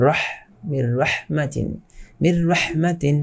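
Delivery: slow মির রহমাতিন, নুন merged into র with no hum; merged without ghunnah. Shown as a demonstration. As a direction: recite মির রহমাতিন carefully. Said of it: "কি হবে?".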